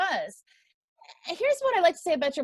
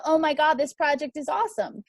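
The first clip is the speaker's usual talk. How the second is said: mock gushing hype; 3 semitones higher, 4 dB louder than usual. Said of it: "If you're too".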